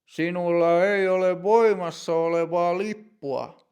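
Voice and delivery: firm, strict inspector's voice, lightly acted; stern. A narrator's reading. Inspector tells Matti his ticket is not valid, sternly. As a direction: lay down the rule without give. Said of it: "tarkastaja sanoo tiukasti".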